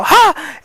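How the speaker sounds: high gasped "ha!"; quick high grab for air; sudden gasp. Shown as a demonstration. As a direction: gasp as if out of breath mid-sentence. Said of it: "accidentally have to, like, go".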